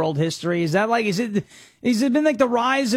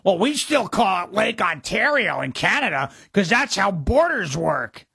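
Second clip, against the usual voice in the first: mock commenter. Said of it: "I had one of these guys going".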